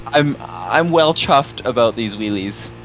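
slow, lightly put-on British accent; just a hint of a British accent; mock British accent. Joking with his friend in a mild British accent. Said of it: "you're bringing back the British humor".

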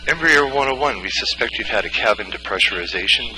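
urgent call. Acted. Controller declares cabin depressurization emergency.

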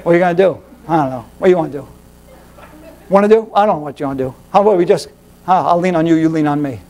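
low, sleepy, listless voice. Retold or imitated. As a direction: play a dull half-asleep friend. Acting lazy bored friends.

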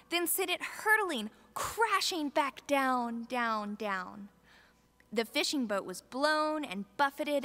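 put-on expressive children's story narration; storybook reading. Reading the Bible story to the families' children, lively storyteller. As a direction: read it to the kids like a storybook.

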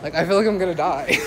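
fast and breathless; gasping it out quickly; out of breath. Real, not acted. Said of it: "I'm so out of breath".

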